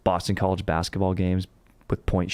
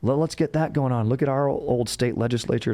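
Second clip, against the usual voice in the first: eager Jersey pitch, pitched up; 4 semitones higher than usual. Retold or imitated. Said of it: "they're like".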